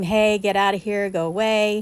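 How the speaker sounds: plain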